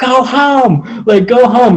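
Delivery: high, drawn-out yell at the top of the lungs. Retelling shouting at a German Shepherd to go home: retelling a shout at top of lungs. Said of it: "at the top of my lungs".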